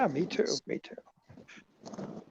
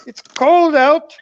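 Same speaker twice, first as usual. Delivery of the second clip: a hammed-up fake English accent, a bit raised; bad English accent; 9 semitones higher, 5 dB louder than usual. Friend hams a bad English accent on a call. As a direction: play the Brit, badly and proudly. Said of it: "That's a terrible English accent".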